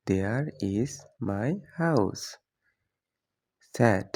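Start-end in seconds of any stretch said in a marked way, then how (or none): 0.1-2.2 very slow, every word separate; slow clear repeat. Shown as a demonstration. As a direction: stretch it out for learners. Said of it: "example then repeated slowly". (খুব ধীরে স্পষ্ট করে)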